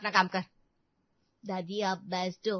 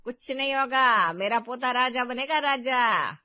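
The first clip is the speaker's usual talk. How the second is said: slow, louder proud proclamation; proud declaration; 5 dB louder than usual. Acted. Grandmother proudly declares her grandson will be king, slow and loud. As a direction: proclaim it like a coronation.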